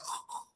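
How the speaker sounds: quiet imitated guttural rasp; harsh French throat sound. Shown as a demonstration. Speaker shows the host the hard accent, harsh throat noise. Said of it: "with the hard accent, it's like".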